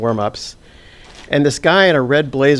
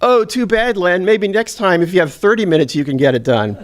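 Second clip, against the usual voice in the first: mock sarcastic announcer, pitched higher; 5 semitones higher than usual. Courtside announcer mocking the shooter's misses, sarcastic. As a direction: sneer it like a snide courtside announcer. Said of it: "he's, like, really sarcastic".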